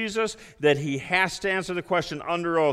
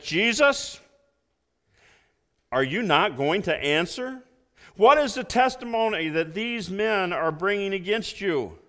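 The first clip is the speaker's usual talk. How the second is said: higher-pitched challenging priest's voice; high priest questioning; 5 semitones higher than usual. Acted. High priest confronting the silent Jesus, mildly voiced. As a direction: demand an answer, a bit raised. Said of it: "Then the high priest stood up and said".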